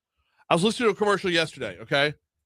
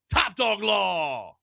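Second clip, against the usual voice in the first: ad tagline; slower than usual. Retold or imitated. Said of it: "the commercial goes like this".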